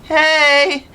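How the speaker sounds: high, loud call; yelling back. A narrator's reading. Charlie yelling down to his sister, high loud call. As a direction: shout it down the stairs. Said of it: "I yelled back".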